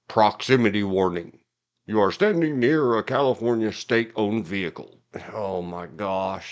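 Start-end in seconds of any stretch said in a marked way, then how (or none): 0.2-5.0 booming, loud male alarm-announcement voice. Describing a state vehicle's alarm, the speaker imitates its loud male warning voice. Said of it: "man voice would say super loud".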